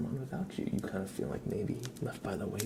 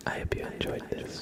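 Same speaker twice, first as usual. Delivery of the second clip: ASMR whisper. Acted. Streamer whispering reflections to viewers, ASMR whisper. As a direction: breathe the words, no voice.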